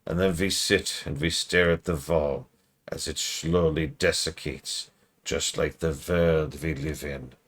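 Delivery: slow, brooding Eastern European monologue; a hint of Eastern European doom; gloomy Eastern European. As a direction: sink into a bleak Eastern European drone. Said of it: "I'm getting a little more Eastern, Eastern European".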